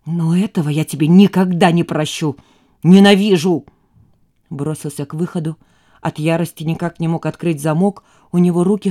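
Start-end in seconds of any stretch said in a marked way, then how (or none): 0.1-3.7 louder furious outburst; enraged. A narrator's reading. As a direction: spit out hatred. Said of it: "Костя побелел от злости". (в ярости)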